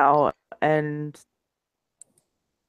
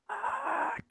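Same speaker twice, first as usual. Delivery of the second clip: sighed curse; 17 dB quieter than usual. Acted. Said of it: "Kind of sigh a little bit".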